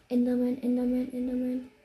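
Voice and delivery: loud urgent warning; alarmed shout. Real, not acted. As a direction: call it out in alarm. Enderman appears, alarmed calling. (alarmierter Ruf)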